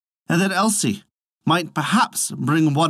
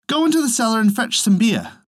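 raised, higher mother's call down the cellar; mother sending her daughter for beer; 9 semitones higher than usual. A narrator's reading. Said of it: "the mother said".

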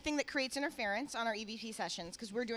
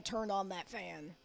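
put-on old prospector voice; 4 semitones lower, 9 dB quieter, slower than usual. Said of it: "like, old prospector voice saying".

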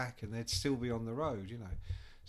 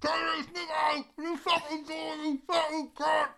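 high, loud bellow through a door; furious shout; 14 semitones higher, 7 dB louder than usual. Retold or imitated. Drummer banging on the manager's door, high furious shout. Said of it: "bang on the door, Nico shouting".

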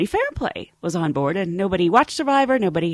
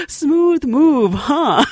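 sheepish joking celebrity; 6 semitones higher, 6 dB louder, much slower than usual. Retold or imitated. Johnny's sheepish joke.

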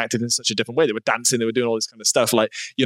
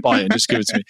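put-on Welsh accent; 3 semitones lower, faster than usual. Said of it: "That's the only accent you can do, the Welsh accent".

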